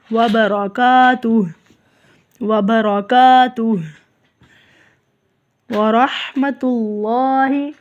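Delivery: وبرکاتہ with rounded lips on wa and heavy ra; rounded waw. Shown as a demonstration. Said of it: "واو کے لیے ہونٹ گول کریں گے". (وبرکاتہ، واو کے لیے ہونٹ گول)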